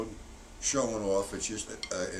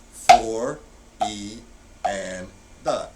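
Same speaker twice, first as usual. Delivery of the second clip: bang the four then whisper on; accent on four; 6 dB louder, much slower than usual. Shown as a demonstration. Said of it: "four E and the going into".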